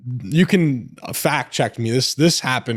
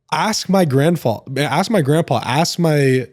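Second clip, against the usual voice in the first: defiant retort; 4 semitones higher than usual. Retold or imitated. Answering doubters in comments.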